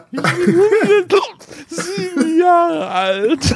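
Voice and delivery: hoch, langsam lallender alter Säufer; lallend betrunken. Acted. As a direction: lall es wie ein volltrunkener Greis. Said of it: "der lallt nur die ganze Zeit". (hoch und langsam lallend, betrunken gespielt)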